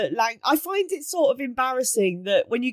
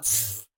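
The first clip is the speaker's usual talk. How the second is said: dismissive pfft; 13 semitones lower, 8 dB quieter than usual. Retold or imitated. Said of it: "You're like".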